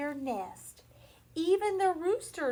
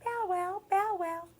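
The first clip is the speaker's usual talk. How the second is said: dog bark; 6 semitones higher, 3 dB louder than usual. Pretend. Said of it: "There was a big red dog".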